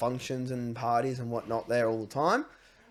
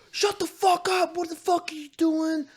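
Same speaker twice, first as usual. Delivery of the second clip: retold yell; 3 dB louder than usual. Angry neighbour yelling over the gate. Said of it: "like, yelling at us".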